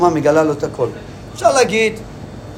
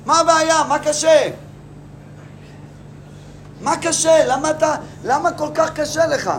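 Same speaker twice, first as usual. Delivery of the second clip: higher, sneering ruler's voice; mocking Joseph; 5 semitones higher than usual. Joseph to Judah, a higher sneering mockery. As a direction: taunt him with mock innocence.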